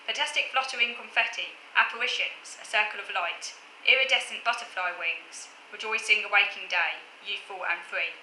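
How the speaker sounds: unhurried recital, pausing between lines; poem reading. Acted. Poet reciting her acrostic for viewers, gentle recital. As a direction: read each line as an image.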